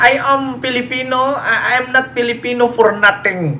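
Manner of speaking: imitating Digong's English line to viewers. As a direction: copy his halting English with pride. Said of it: "ganyan yung ka-English ni Kurimao Digong".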